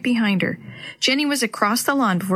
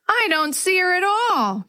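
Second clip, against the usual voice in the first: wail; 9 semitones higher than usual. A narrator's reading. Girl answering about her missing cat, narrated wail. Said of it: "Jenny wailed".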